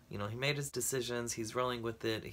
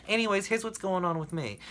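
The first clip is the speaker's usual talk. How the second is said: mock dismissive sympathy; 7 semitones higher, 5 dB louder than usual. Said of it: "and they're like".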